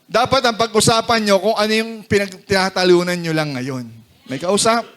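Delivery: ordinary delivery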